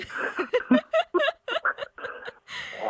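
long airy laugh. Real, not acted. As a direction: laugh freely for a while. Host laughs at the meeting.

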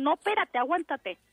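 high-pitched hold-on command; retold urgent order. Staff to mother pushing by herself, retold urgency. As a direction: imitate insisting that someone wait.

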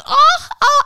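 very high, loud mock gasps; hammed-up appalled "oh"s; mimicked shock. Imitating her still reeling at the sight, mimicked shock. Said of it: "then she kept going".

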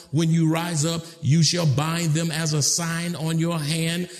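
steady, level-toned Bible recitation; formal verse reading on one sustained note; scripture reading. Real, not acted. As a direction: read it out evenly in measured phrases.

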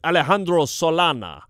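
Alejandro Solana with a rolled Spanish j as h, hard a vowels; Spanish pronunciation. Shown as a demonstration. Host practicing his Spanish accent for co-host. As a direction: say Alejandro the Spanish way, Ah-leh-HAN-dro. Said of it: "keep trying to say it right, with the proper accent".

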